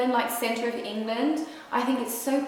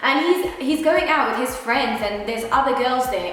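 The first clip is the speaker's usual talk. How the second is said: worked-up insistence; 5 semitones higher, 4 dB louder than usual. Real, not acted. Insisting on trust in relationships.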